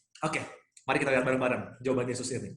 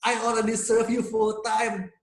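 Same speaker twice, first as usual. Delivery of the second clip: retold angry prayer; 7 semitones higher than usual. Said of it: "Saya marah-marah tuh, saya ngomel-ngomel".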